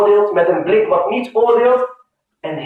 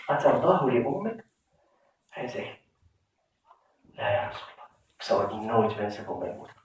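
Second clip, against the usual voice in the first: low, near-whispered exchange, dropping almost to breath; hushed retelling; 9 semitones lower, 10 dB quieter than usual. Retold or imitated. The prophet and the young man speak privately, hushed. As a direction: keep the whole dialogue barely audible. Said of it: "en fluistert hem in en zegt".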